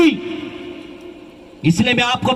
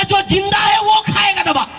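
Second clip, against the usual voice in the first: sadhu's declaration; 8 semitones higher than usual. Retold or imitated. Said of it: "बोला".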